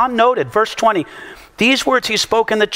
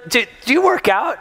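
lightly raised, curious lady question; mimicking the lady again; 6 semitones higher than usual. The woman asking him again, in a mild higher mimic. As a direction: ask it as the nosy lady, a bit higher.

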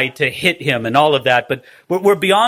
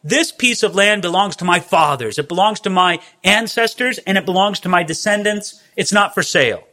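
Naboth's refusal; 4 semitones higher than usual. Retold or imitated. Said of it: "that's why Naboth says".

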